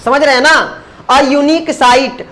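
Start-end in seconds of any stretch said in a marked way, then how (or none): 1.1-2.2 A unique sight very slowly, unique starting with a y sound; slow demo reading. Shown as a demonstration. Teacher modelling pronunciation, very slow. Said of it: "अब यूनिक, य से फिर इसका pronunciation".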